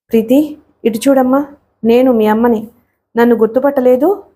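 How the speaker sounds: ordinary delivery, nothing marked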